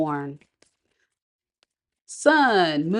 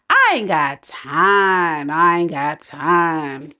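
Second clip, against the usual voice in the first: dismissive quote; 3 semitones lower, much slower than usual. Acted. Voices listener's dismissive reply.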